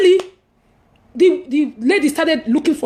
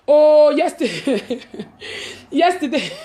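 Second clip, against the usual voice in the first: laughing; slower than usual. Real, not acted. Laughing while starting story.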